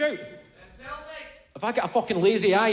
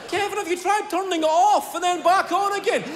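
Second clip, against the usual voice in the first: mock helpful relative; 10 semitones higher than usual. Relative suggests turning off and on.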